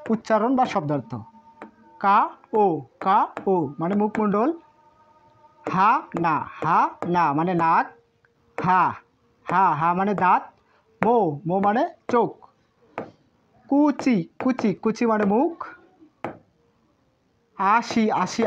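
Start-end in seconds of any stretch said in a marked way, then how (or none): 2.0-2.6 কা ও as two separate, clearly spaced syllables; pronunciation demo. Shown as a demonstration. Teacher repeats the pronunciation for learners, syllable by syllable. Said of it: "আরেকবার উচ্চারণ করে দেই". 13.7-14.2 কুচি slowly drawn out as "kuu... chi", pitched high; syllable-by-syllable pronunciation. Shown as a demonstration. Teacher repeats the pronunciation for learners, slowly by syllable. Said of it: "আরেকবার উচ্চারণ করে দেই".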